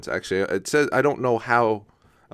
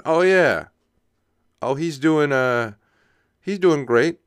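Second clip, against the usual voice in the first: high, upbeat mock small-talk reply; chirpy canned answer; breezy mock reply, a touch higher; 5 semitones higher, 4 dB louder, slower than usual.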